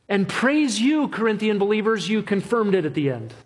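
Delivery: mock the idea that they held on themselves; mock sermon voice. Mock version continued.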